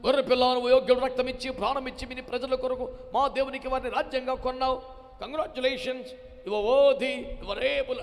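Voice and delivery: loud bursts of worship, rising on worthy; clamorous praise. Acted. The elders clamouring praise to the Lamb, loud and excited. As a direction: cry out like a crowd of elders. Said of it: "అని గోల పెట్టేస్తున్నారే".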